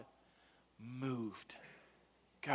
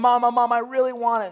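put-on whiny child; 7 semitones higher, 7 dB louder than usual. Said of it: "she started saying".

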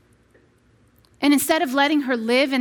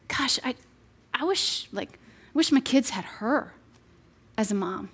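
softer, wishful sigh of a line; quietly wishing you had her as a mom; wistful inner thought; 2 semitones lower, 6 dB quieter than usual. Retold or imitated. Mom at the park, envying another mom, softly wistful. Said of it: "And you feel like".

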